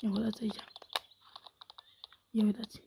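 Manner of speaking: hushed whisper, breathy and unvoiced. Real, not acted. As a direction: whisper as if not to startle the animals. Showing animals, hushed. (în șoaptă)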